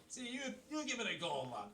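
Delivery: encouraging. Acted. Acting out coaching the dwarf.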